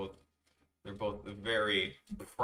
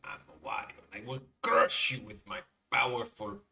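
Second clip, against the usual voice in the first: booming brute boast; barbarian; 5 dB louder than usual. Acted. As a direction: brag like a muscle-bound brute. Wario boast, loud end.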